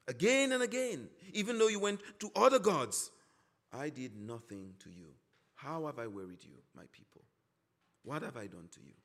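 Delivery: hurt pleading. Acted. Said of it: "It's as if God is saying".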